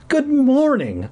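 very high, drawn-out joyful greeting; overjoyed, slow and high; happy cry. A narrator's reading. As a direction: sing out the greeting happily. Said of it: "I cried happily".

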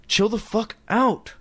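annoyed brush-off. A narrator's reading. Lindy retorts, tired.

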